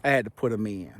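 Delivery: talking with retainers in; slightly lisped, retainer in mouth; wearing a retainer. Real, not acted. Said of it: "I got my retainers in".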